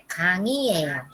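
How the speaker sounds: 강, 이, 에, 요 joined up, ng kept intact; as it sounds. Shown as a demonstration. Teacher repeating how it is written, joined up. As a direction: run 강, 이, 에, 요 together as kang-i-e-yo. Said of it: "Se pronuncia así como suena".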